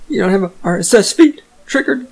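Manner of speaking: high-pitched fake hysteria; mock triggered outrage. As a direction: squeak in pretend outrage. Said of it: "do a triggly puff".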